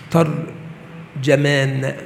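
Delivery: slow, split "tar... jamaan", both short vowels a; fatha on ta and jim. Shown as a demonstration. Teacher showing students the first form, ترجمان pronounced tarjamaan. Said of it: "بفتح التاء والجيم".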